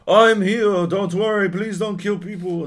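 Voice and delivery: high, loud mock plea from a goody heroine; mock-earnest reveal line, high and loud; pleading heroine. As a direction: ham up an earnest heroine begging everyone to stop. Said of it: "She's like".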